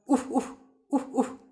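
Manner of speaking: short, high woofs in pairs; dog woof. Shown as a demonstration. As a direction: bark out woof-woof like a little dog. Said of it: "dog कैसे बोलता है".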